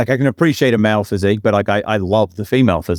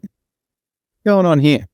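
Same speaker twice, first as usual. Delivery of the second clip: slow, high, drawn-out mock alarm; hammed-up suspicious what's going on; 4 semitones higher, much slower than usual. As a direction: stretch it out, higher, like a man who smells trouble. Retold alarm at locked door.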